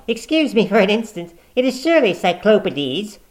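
an excited collector pointing things out; Stapleton's voice. Acted. Naturalist to Watson on the moor, eager and lively.

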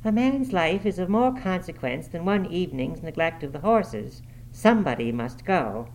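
mild, kindly woman's plea; kindly murmur. A narrator's reading. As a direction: plead gently without raising the volume. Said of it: "murmured Missus Heathcliff, more kindly".

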